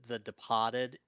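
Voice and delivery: Boston accent, dropped R in Departed. Shown as a demonstration. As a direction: say Departed as "De-pah-ted", Boston style. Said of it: "with a drop R".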